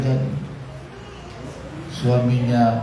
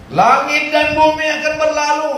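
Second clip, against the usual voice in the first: voice of God; 13 semitones higher, 4 dB louder than usual. Acted. Preacher quoting God's eternal word, lightly voiced proclamation. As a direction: announce it as God's own word. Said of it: "kata Tuhan".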